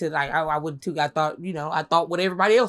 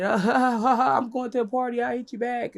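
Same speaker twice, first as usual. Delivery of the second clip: mock brush-off; 6 semitones higher, slower than usual. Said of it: "And I said".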